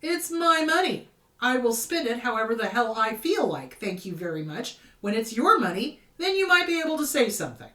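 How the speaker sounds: retold comeback, loud and indignant; retold retort. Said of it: "And I'm like".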